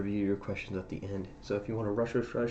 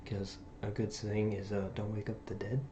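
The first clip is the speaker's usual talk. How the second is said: quiet at night; 5 dB quieter than usual. Real, not acted. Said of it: "why I'm talking this quiet".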